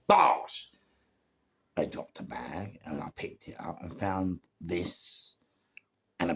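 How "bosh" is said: sudden loud, high burst; punchy exclamation. Retold or imitated. Storyteller capping a street chase, punchy loud exclamation. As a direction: punch it out like an impact. Punctuating the chase with an impact word.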